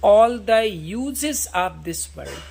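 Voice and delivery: slow, drawn-out reading of Shakespeare; slow recitation. Shown as a demonstration. Teacher reading Hamlet's soliloquy to students, slow solemn recitation. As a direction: recite each word slowly and solemnly.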